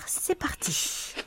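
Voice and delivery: slow ASMR whisper; right in your ear. Shown as a demonstration. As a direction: breathe it softly into the mic. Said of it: "A S M R".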